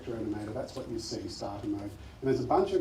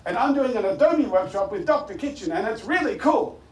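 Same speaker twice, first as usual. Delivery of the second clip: robot voice; 9 semitones higher, 9 dB louder than usual. Shown as a demonstration. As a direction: model a bold robot voice. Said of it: "in your best robot voice".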